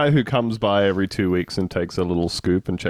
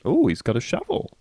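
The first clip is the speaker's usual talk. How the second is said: impressed "Ooh", lifting at "shovel"; positive inflection. Shown as a demonstration. Admiring the applicant who brought a shovel, positive inflection. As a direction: draw out "Ooh" and rise on "shovel". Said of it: "It's gonna be the positive inflection".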